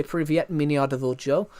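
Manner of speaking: says Privyet, меня зовут Joe in Russian; Russian phrase. Shown as a demonstration. Showing off a Russian greeting to stream chat, plain recital. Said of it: "I can say".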